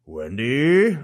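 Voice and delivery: imitating Jack calling after his wife; sudden call. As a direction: snap her name out suddenly. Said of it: "He's doing different voices".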